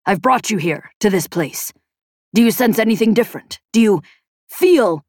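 intent questions building in pitch and force; probe, with a lightly voiced stiff accent; stiff-accented inventor. Man urges his sphere to feel, building intensity.

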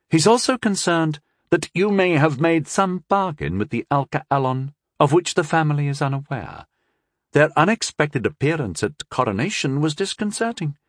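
a cool scheming princess. Acted. Narrator voices young princess.

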